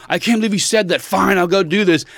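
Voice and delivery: lightly hammed-up Barbie tiff; squabbling Barbie dolls. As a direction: imitate a kid voicing indignant dolls. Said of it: "they had two Barbies, and they're like".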